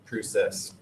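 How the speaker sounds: Canadian "process" with a long O; imitated Canadian vowel; Canadian accent. Shown as a demonstration. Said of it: "a few words which just scream Canadian".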